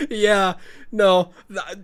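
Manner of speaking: talking through laughter; laughing. Real, not acted. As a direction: giggle through the words. Laughing with agreeing comment.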